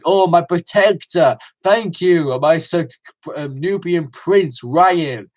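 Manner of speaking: lightly imitated persuasive camp accent, a touch lifted; camp King James. King James thanking his protector Ryan, lightly camp and persuasive. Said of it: "that accent was so persuasive".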